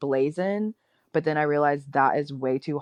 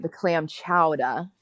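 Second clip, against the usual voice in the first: put-on Boston accent; slower than usual. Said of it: "you trying to do a Boston accent now?".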